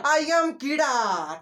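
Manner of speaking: slow, playful bug announcing itself; a lightly voiced little bug saying hello; insect voice. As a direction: introduce yourself as a cheeky bug. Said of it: "ऐसे बोलेगा आपसे".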